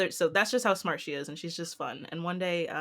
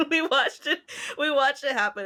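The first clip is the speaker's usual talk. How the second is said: much higher, louder, laughing through it; can't stop laughing as you say it; much higher laughing retelling; laughing while talking; 8 semitones higher, 5 dB louder than usual. Real, not acted. Laughing at the memory.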